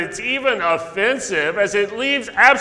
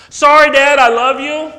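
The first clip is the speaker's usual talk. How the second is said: put-on sweet child; 6 semitones higher, 8 dB louder than usual. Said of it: "what do you think John said".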